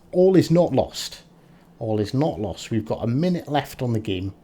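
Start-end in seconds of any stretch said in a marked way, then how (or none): 0.1-1.2 high, loud determined rally; rally yourself, high and strong; rallying cry. Real, not acted. Rallying after the setback.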